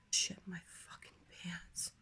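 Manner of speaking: hushed panicked whisper. Retold or imitated. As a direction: whisper it in dread. Sudden urge to poop.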